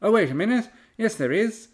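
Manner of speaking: high, loud, sudden mock-friendly islander; high mock villager voice. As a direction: switch to fake sweetness, high and loud. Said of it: "they're like".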